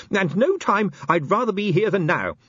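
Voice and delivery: high-pitched, earnest little inspector, mildly nervous; trembling resolve. A narrator's reading. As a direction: declare yourself bravely though scared. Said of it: "his teeth chattering".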